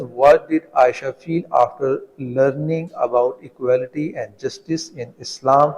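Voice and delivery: slow, deliberate reading voice for the class; slow textbook read-aloud. Acted. Teacher reading the question aloud slowly to pupils. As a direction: read each word out slowly to students.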